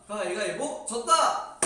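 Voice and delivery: mock lament. Trainee admitting the loss to seniors, slow mock lament. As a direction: wail it out half-laughing. Retelling losing, slow loud.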